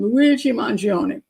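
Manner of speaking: slow, exaggerated mock-Italian accent; bad Italian accent. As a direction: savor the name in a hammy Italian accent. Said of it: "with a really bad Italian accent".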